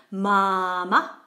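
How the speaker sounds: "mama" with stretched first "ma", very short second; long then short. Shown as a demonstration. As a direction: draw out the start of "mama", cut the end short. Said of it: "second ma is very short".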